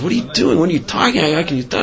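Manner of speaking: half-voiced screaming, pitch lifted; retold screaming. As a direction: imitate an angry man firing off questions. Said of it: "He starts screaming at her".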